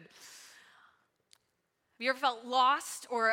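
slow hushed whisper. Acted. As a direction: lean in and breathe the question slowly. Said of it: "breathy whisper question".

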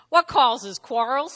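"quarrels" lifted in a rising question tone. Shown as a demonstration. Preacher reading James to the church, pointed question rising on "quarrels". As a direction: read slowly and loudly, rising on "quarrels". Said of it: "read that like a question".

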